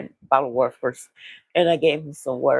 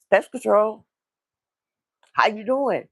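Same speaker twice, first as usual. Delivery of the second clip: upbeat, higher cheery greeting; all happy; 4 semitones higher than usual. Retold or imitated. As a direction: announce yourself brightly at the door. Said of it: "No, he'd be all happy".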